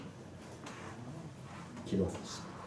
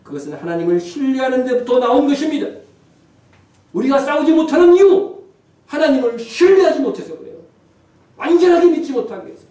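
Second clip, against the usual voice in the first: loud, raised sermon delivery; full-force preaching; 12 semitones higher, 13 dB louder than usual. Real, not acted. Pastor urging the congregation to fight by faith, full-force preaching. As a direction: preach it out hard, pitch held high.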